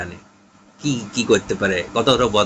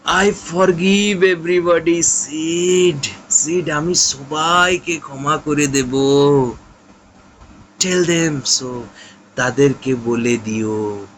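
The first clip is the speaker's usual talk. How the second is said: groaning; 4 semitones higher, much slower than usual. Acted. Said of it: "Tom তখন গোঙাতে গোঙাতে বলছে".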